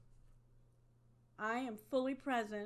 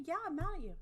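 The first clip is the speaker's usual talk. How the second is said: mad statement; 6 semitones higher, 4 dB louder, much faster than usual. Shown as a demonstration. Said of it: "I say".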